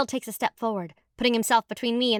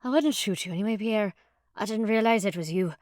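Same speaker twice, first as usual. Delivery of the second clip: dim and unsure. Acted. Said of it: "He sounds less confident and not too bright".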